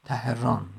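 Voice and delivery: تهران as three syllables, ta-he-rân; split root pronunciation. Shown as a demonstration. Teacher explaining a word's root, split pronunciation. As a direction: sound out تهران with an extra vowel, ta-he-RAN. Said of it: "ران کوه بگیریم".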